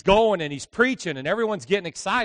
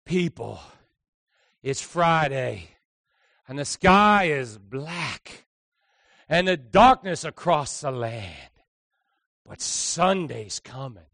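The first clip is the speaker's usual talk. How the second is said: slow, rising a little; 3 semitones lower, 5 dB louder, slower than usual. Retold or imitated. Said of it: "got a little higher".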